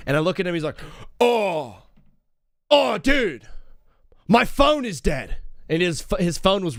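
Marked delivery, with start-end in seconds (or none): 1.2-5.4 high, slow dismayed whine; panicked. Retold or imitated. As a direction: realize the disaster mid-sentence. Best man panicking.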